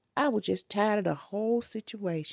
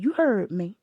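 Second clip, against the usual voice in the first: stern command. Retold or imitated. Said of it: "I said".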